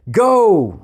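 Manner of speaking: long, high starting shout; shouted command. A narrator's reading. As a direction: bellow the order to start. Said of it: "The shout echoed".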